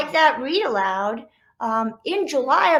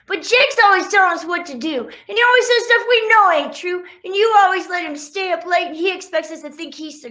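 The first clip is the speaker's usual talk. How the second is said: higher, louder whiny complaint; complaining sibling dog; 6 semitones higher, 5 dB louder, faster than usual. Acted. Dog siblings griping to each other, higher whiny complaint. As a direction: whine it like a fed-up little brother.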